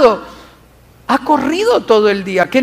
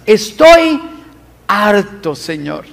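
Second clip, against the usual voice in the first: exasperated outcry; slower than usual. Acted. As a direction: burst out fed up, then collapse. Elijah's outburst to God.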